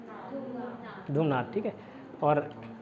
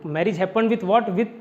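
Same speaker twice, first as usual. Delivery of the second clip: slow dictation; much slower than usual. Shown as a demonstration. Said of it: "teacher dictating example sentence".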